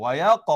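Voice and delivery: "Wa yaqa" with o glide before q; rounded o sound. Shown as a demonstration. Teacher shows the o sound, "Wa yaqa" rounded. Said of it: "bunyi o".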